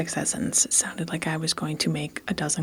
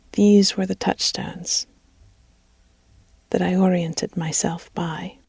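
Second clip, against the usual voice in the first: measured, evenly phrased storytelling; story narration; 3 semitones higher, 3 dB louder than usual. A narrator's reading. Narrator recording a story for listeners, measured storytelling. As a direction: read it steadily with pauses between phrases. Reads a story between retakes.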